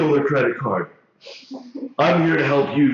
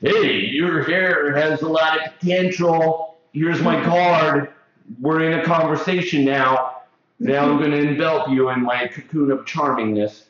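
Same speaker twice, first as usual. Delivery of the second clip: mock pickup line. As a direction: stretch the words out to charm a stranger. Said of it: "that used to be my pickup line".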